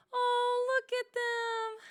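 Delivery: high, squeaky little creature voice; high and delighted; cute critter voice. Acted. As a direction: coo it like a tiny woodland friend. Friends' voices in game dialogue.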